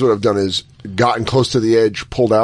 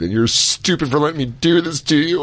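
hammed-up disgust at yourself; slowed mock despair; mock self-loathing; 4 semitones higher than usual. Acting out post-sex disgust.

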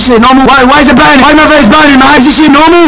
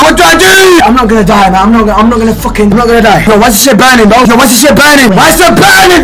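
panicked; faster than usual. Real, not acted. Face burning, panicking.

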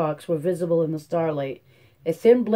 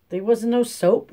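put-on child complaining; 6 semitones higher, 3 dB louder than usual. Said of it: "Winfield complained".

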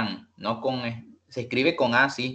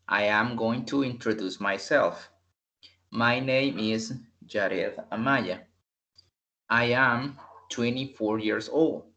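model introduction read. Shown as a demonstration. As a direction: read it out clearly as a model for the class. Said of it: "Vean, escuchen bien". (lectura modelo lenta y clara)

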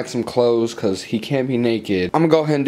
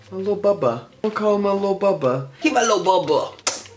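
put-on baby talk; 7 semitones higher than usual. Cooing over her clay figure.

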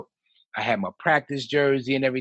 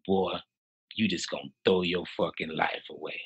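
a hint of a stern coach, a bit lower and softer; lightly voiced coach scolding a player; imitating the assistant coach; 4 semitones lower, 4 dB quieter than usual. Assistant coach warns the player not to quit, lightly imitated. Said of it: "I'm trying to imitate his voice best I can".

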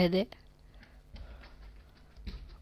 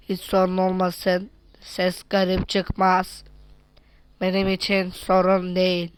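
toy robot voice; 2 semitones lower than usual. Pretend. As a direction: speak like a stiff toy robot. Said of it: "Robot taklidi". (oyuncak robot sesi)

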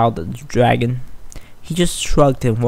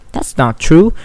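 pouting; 4 dB louder than usual. Acted. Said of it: "Sweetie pouted".

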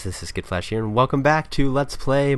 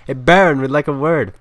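loud, higher-pitched hail; calling out; 3 semitones higher, 8 dB louder than usual. Acted. Brash lawyer hailing the Baron for a word, calling out. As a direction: call across to get his attention.

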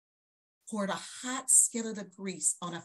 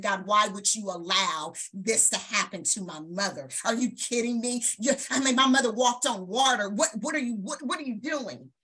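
loud, raised, retold anguished demand; angry at God; 2 semitones higher, 5 dB louder than usual. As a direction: cry out to God in furious disbelief. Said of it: "I was so angry with God".

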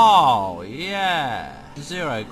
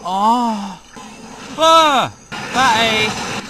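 high, loud shriek of fright; jump-scare yelp; startled shriek; 9 semitones higher, 10 dB louder, much slower than usual. Real, not acted. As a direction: yelp as it jumps you.

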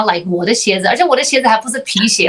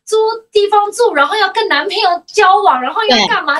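higher, fast breathless twenty-something; eager young adult; 8 semitones higher than usual. Retold or imitated. Host mocking her twenty-year-old self rushing to leave home, higher and fast. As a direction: rattle it off like a restless kid leaving home.

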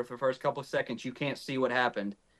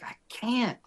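retold protest, jumping up high; exasperated protest; 10 semitones higher than usual. Hunter answers partner urging him to shoot, exasperated protest. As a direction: push back at an insistent partner, mock exasperation.

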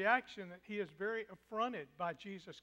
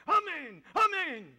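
loud, much higher amen; shouting; 9 semitones higher, 12 dB louder than usual. Acted. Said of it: "this shouting phrase".

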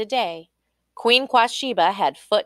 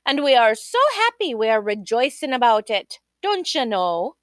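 butter up the king nervously; flustered mama; 5 semitones higher, 4 dB louder than usual. Acted.

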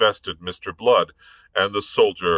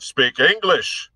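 slow, high, loud command; curt order; 8 semitones higher, 4 dB louder than usual. A narrator's reading. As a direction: bark the order. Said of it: "snapped Hobart".

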